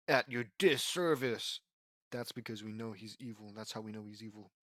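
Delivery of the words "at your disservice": slow, louder, lightly villainous voice; mildly theatrical bad-guy delivery; hint of a villain. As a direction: announce it slowly like an evil mastermind. Villain introduces himself with menace.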